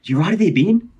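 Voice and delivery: high-pitched attempt at Australian; bad Australian accent. Imitating the girl at the hostel, attempted Australian accent. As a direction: have a shaky go at an Australian accent. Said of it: "That was Australian, by the way".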